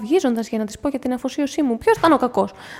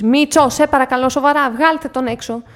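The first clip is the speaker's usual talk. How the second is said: upset pleading; 5 semitones higher, 5 dB louder than usual. Acted. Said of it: "όλο και πιο στεναχωρημένη".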